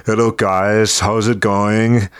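put-on slow, deep Austrian-accented greeting; lightly done Arnold Austrian accent, drawn out; a hint of Arnold's Austrian accent, slow; Schwarzenegger impression. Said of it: "I felt my vocal cords start to get a little bit deeper".

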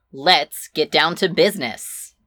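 brisk, no-nonsense business tone; businessman voice. Acted. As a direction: sound like a boss opening a meeting. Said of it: "Could you sound any more businessman than that?".

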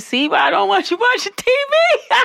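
a hammed-up high shout; mock yell. Daughter to mom in a coma, a hammed-up high shout.

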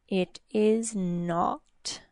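slow, soft demon taunt. Acted. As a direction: draw it out, gloating. Demon answers slowly.

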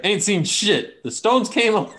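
high, loud mocking voice; mocking impression. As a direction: parrot him back in a silly high voice.

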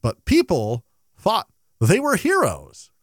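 slow sing-song limerick recital; bouncy limerick lilt. Pretend. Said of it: "do you have a limerick for us today?".

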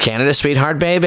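put-on "baby" with a heavily leaned-on A, like "bay-bay"; showy producer's "baby", the A stressed hard; heavy A in baby. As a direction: punch the A in "baby". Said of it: "I say baby with a heavy emphasis on the A".

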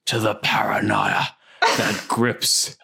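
slow, hammed-up attempt at a brooding film-trailer hero; mock movie-star read, dragging every word; a half-laughing, slow stab at a British action star; Daniel Craig. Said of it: "I was trying to do my, uh, Daniel Craig".

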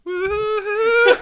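high, loud, slow whooping; excited whoop. Real, not acted. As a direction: whoop like a cheering fan. Cheering end of awkward segment.

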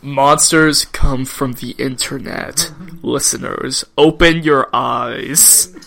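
a hint of solemn conspiracy preacher; slow down into a half-serious public warning; mock-serious warning. Warning listeners about the internet, mock-solemn.

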